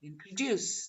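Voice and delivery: 'introduce' as in-tro-DUCE; weight the DUCE of 'introduce'; third-syllable stress. Shown as a demonstration. Teacher repeating the third syllable, stressed last beat. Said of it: "So the third syllable".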